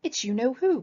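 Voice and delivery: a hint of panicked Rabbit, rising on you-know-who; mock alarm at the sight of Tigger; mildly panicked Rabbit; dismayed cry. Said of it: "cried Rabbit".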